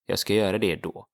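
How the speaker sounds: Jag ska göra det då run together quickly; teacher repeats the sentence at natural speed; natural fast Swedish. Shown as a demonstration. Teacher says the sentence fast, as a native would. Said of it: "as in I will do that then".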